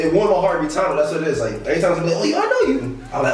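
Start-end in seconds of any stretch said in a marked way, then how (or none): 2.1-3.0 high excited fan. Retold or imitated. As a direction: call out like a fan spotting him. People recognizing him.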